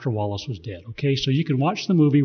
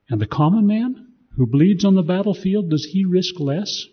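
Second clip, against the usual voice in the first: higher, louder challenge, slowing on the end; pointed question; 7 semitones higher, 4 dB louder than usual. A narrator's reading. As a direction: press Robert on what the common man risks. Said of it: "Wallace asked".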